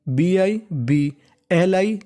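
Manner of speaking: बीआईबीएलआई spelled out very slowly; syllable drill, slow. Shown as a demonstration. Teacher spelling code for students, very slowly. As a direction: drag out the spelled letters. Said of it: "क्रेडी".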